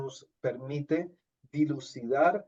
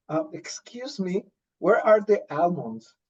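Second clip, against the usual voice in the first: put-on Spanish-accented English; 3 semitones higher, slower than usual. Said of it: "le dije".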